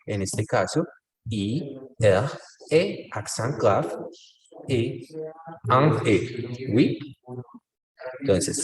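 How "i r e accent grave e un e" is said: letter by letter, "accent grave" slowed; spelling with accent. Shown as a demonstration. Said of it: "tenemos que ser específicos en ese acento". (deletreo pausado, marcando "accent grave")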